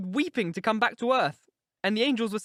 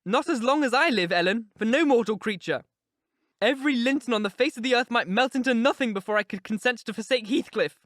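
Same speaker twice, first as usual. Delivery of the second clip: higher, louder indignant outcry; 7 semitones higher, 7 dB louder than usual. A narrator's reading. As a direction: flare up in defiance of the idea. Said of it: "she exclaimed with an accent of indignation".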